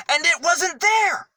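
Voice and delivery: high, loud astonished cry; amazed reveal. A narrator's reading. Storyteller to children, revealing the empty tomb in amazement. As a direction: gasp out the surprise.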